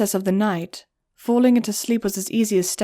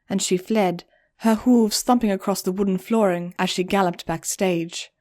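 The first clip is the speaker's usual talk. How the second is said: usual speaking voice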